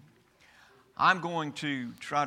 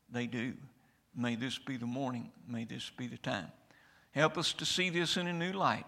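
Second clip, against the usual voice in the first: pastoral prayer. Acted. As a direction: pray humbly before the congregation. Pastor prays before sermon.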